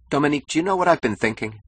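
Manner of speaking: high, fast, eager question. A narrator's reading. Husband springing an idea on his wife, eager. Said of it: "he asked eagerly".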